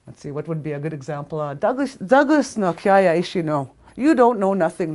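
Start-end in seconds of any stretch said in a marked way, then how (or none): 1.6-4.9 scolding elders. Retold or imitated. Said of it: "they used to tell me".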